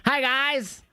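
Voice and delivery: hammed-up high wrestler voice; mock Jericho voice. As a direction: ham up a goofy wrestler intro. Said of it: "he'll be like".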